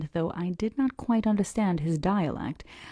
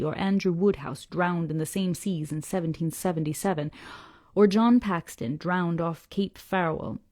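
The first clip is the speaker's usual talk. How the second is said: put-on old Yorkshire fisherman; 3 dB louder than usual.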